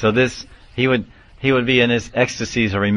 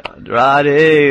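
higher, louder retold crowd cry; seruan gembira; 6 semitones higher, 6 dB louder than usual. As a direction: imitate a crowd calling out, pitched up. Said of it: "everyone's like".

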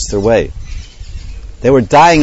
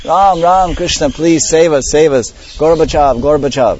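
higher pleading cry; boys crying out for help; 5 semitones higher than usual. Acted. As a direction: beg Krishna to save them. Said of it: "they're crying out".

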